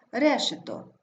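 решето stressed on the first syllable, РЕ-шето. Shown as a demonstration. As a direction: lean on РЕ in решето. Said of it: "Наголошений перший склад Е". (решето з наголосом на РЕ)

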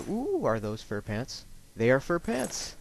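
delighted high-pitched surprise; pleased gasp of discovery; surprised. Real, not acted. Spots the fur pants he wanted.

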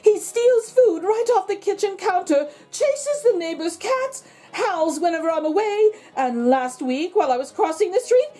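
Mrs. LaRue voice. Acted. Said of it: "said Missus LaRue".

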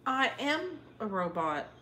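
robot voice. Acted. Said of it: "Do you not know what I'm referencing?".

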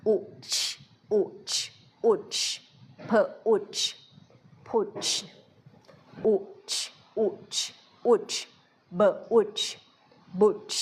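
short อุ in อุช leading to พุช and บุช; short u sound. Shown as a demonstration. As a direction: keep อุช short and clipped. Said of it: "อันนี้เป็นเสียงสั้นนะ". (ออกเสียงอุสั้นในคำว่า พุช)

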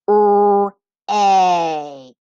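"R-A" as two long separate sounds, rrr, ay; sounding out. Shown as a demonstration. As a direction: hold each sound of "R-A" loudly, with a gap. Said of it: "finger tap the first syllable".

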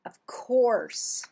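breathy whispered answer. Acted. Reading to a child, whispered reply. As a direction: whisper it like a secret. Reading picture book aloud.

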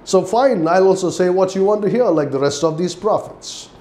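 mildly mocking, quick aside; lightly mock with feigned compliance. Micaiah giving the king what he wants to hear, mildly mocking. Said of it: "He's just mocking that king".

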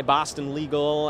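broad Boston vowels slipping out; Boston accent, dropped r. Real, not acted. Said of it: "your accent came out".

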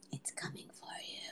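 a creepy whispered threat; spooky whisper. Acted. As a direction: whisper it like a ghost story. Spooky warning about Corona.

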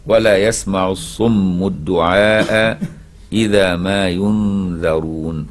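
slow measured tajweed chant; Quran recitation. Shown as a demonstration. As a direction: draw out each word like a recitation. Teacher recites verse again. (تلاوة مرتلة بطيئة)

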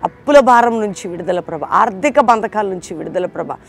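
loud pleading prayer rising in force; loud fervent prayer of deliverance. Acted. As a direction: cry out for deliverance over the listeners. Leads fervent closing prayer.

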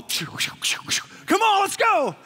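a bright yell of let's go; eager son calling. Retold or imitated. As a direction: son eager to head down the mountain, calling high and loud.

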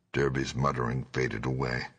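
usual speaking voice

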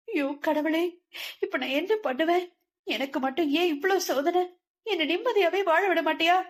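high, anguished lament alone; wailing to God. A narrator's reading. Locked-in mother wails to God, high and anguished. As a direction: cry out to God in despair. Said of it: "தனிமையில் கதறிக் கொண்டிருக்க".

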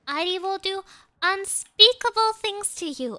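loud, high-pitched play threat; worked-up, theatrical threatening; mock threat. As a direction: hammer out UNSPEAKABLE as a warning. Repeats threat at game opponent.

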